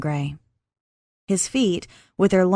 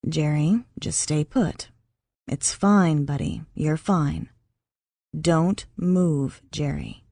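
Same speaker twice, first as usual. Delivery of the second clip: soothing; 3 semitones lower, slower than usual. Acted. Max calming Jerry.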